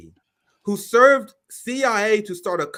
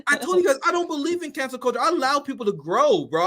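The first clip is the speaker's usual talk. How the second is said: laughing; 7 semitones higher than usual. Real, not acted. Laughing, exasperated about grace.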